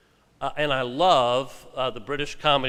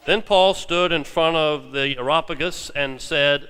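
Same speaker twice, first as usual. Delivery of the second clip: louder, measured Bible reading to the congregation; scripture reading; 2 semitones higher, 3 dB louder than usual. Acted. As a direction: proclaim the passage like Paul before the Areopagus.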